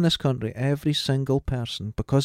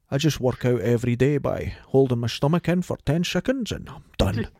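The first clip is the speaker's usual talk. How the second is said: Sean Connery impression. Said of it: "everyone can do a Sean Connery".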